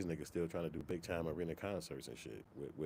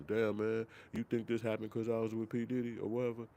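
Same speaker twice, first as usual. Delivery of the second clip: mock worried; 6 semitones higher, 3 dB louder than usual. Mocking worried former friends.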